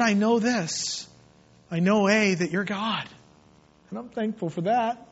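earnest, measured pulpit prayer; heartfelt prayer. Acted. Preacher offering himself to the Lord, heartfelt prayer. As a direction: address God intimately, phrase by phrase.

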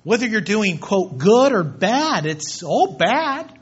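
preacher pounding the point; emphatic preaching. Real, not acted. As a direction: drive it home hard. Preacher driving point home loudly.

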